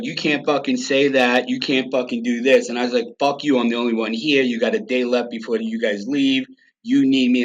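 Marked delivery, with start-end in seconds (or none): 0.0-2.7 heated argument. Retold or imitated. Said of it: "it was heated". 3.2-7.4 raised, fired-up retort; heated comeback. Retold or imitated. To Schumer's staff in a heated meeting, raised defiant retort. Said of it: "it was heated".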